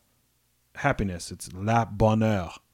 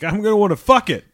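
mock tourist; 9 semitones higher, 6 dB louder, faster than usual. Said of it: "they're like".

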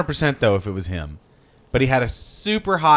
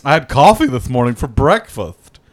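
Hollywood executive; slower than usual. Acted. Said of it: "Is that your Ratner impression? Nope. That's just a Hollywood executive".

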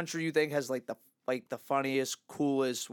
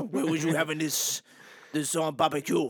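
mock French question; put-on French accent; 3 semitones lower than usual. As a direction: ask in a bad French accent.

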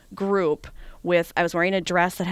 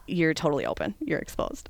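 whisper warning; 5 dB quieter than usual. Retold or imitated. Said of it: "was like".

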